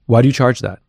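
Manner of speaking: level, matter-of-fact demand for a reason; blunt, flat question. Shown as a demonstration. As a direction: ask it straight, no softening at all. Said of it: "That's how I asked the question".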